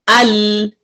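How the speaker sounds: अल with the ल stopped abruptly; अल clipped hard on the ल; strong hard lam. Shown as a demonstration. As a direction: snap the ल in अल shut. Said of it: "अगर हम इसको strong पढ़े".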